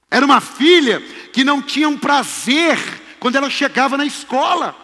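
high, loud impassioned sermon delivery; forceful preaching. Real, not acted. Preacher telling of a mother's possessed daughter, preaching at full force.

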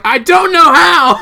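high, loud, drawn-out imitation of a flustered friend; mock panicked yell. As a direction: wail it at the top of your voice, exaggerated. Voicing flustered friend's reply in anecdote.

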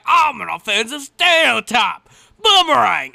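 shouted high and loud; shouting. Retold or imitated. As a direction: yell it like an over-the-top caricature. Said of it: "he's like".

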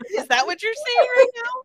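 very high, loud, gleeful mock question; smiling bad acting. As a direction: play it absurdly cheerful, badly acted. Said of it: "smiling the entire time".

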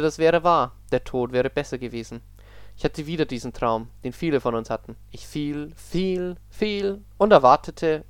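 spooky story read aloud; story narration. Acted. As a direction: narrate a creepy tale, steady.

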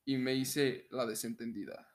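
announcer-style narration with deliberate pauses; voz de locutor. Pretend. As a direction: read it out in measured, evenly pitched phrases. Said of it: "la voy a leer con mi voz de locutor". (voz de locutor, pausada y pareja)

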